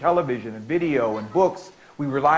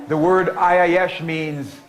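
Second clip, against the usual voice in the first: slow build-up; 3 semitones higher, 4 dB louder, much slower than usual. Shown as a demonstration. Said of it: "slow emphatic build-up".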